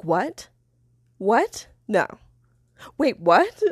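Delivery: stunned questions, rising at the end; retold disbelief. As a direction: replay the moment of not believing it. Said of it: "couldn't believe what I just heard".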